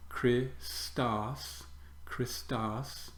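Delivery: Christos split as KHRIS-tos, a break after the iota; syllable split. Shown as a demonstration. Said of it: "broken into syllables".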